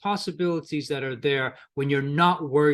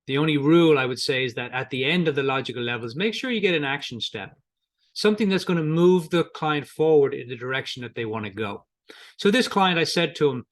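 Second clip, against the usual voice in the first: usual speaking voice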